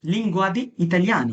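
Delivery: very slow, careful Italian; deliberate teacher demo; slow model phrase. Shown as a demonstration. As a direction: stretch each word out for learners. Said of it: "teacher models Italian slowly".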